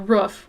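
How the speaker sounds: "roof" close to "ruff"; "ruff" pronunciation. Shown as a demonstration. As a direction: say "roof" with a short vowel, like a dog's ruff. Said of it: "Whenever I say roof".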